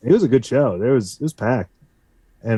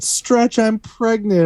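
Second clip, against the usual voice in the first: mock poster shout; 10 semitones higher, slower than usual. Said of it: "it said".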